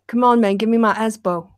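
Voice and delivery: put-on lightly done Ali G street accent; a hint of Ali G swagger. Joking to a friend, a light Ali G accent. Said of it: "Don't do that accent ever again".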